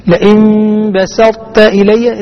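لئن بسطت إلي with the ط's emphatic colour kept before ت; slow recited بسطت, ط partly held; partial assimilation. Shown as a demonstration. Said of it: "إدغام ناقص".

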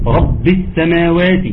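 رب with a held, pressed doubled ب. Shown as a demonstration. Teacher showing the doubled ب in رب, pressed. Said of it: "الباء مشددة".

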